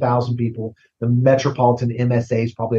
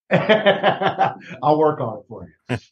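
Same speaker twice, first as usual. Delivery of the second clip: laughing; 3 semitones higher, much slower than usual. Real, not acted. Laughing reply to a joke.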